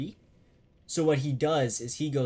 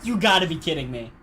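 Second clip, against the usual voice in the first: louder stunned complaint; shocked disbelief; 3 semitones higher, 7 dB louder than usual. Real, not acted. Disbelief at game event.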